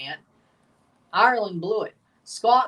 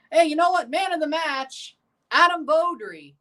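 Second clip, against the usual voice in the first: sarcastic; 6 semitones higher than usual. Real, not acted. Sarcastic award to blundering player.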